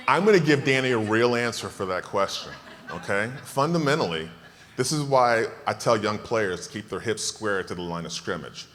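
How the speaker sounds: usual speaking voice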